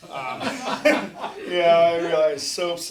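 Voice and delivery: bursting into a loud laugh. Real, not acted. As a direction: laugh through the words. Laughing at own story.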